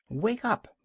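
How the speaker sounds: put-on high sharp bark of a young seal. A narrator's reading. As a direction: bark it out to wake him. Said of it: "barked Kotick".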